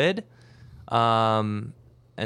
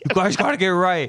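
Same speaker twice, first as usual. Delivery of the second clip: Christian Bale rant; 8 semitones higher, 5 dB louder than usual. Retold or imitated. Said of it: "get mad like Christian Bale".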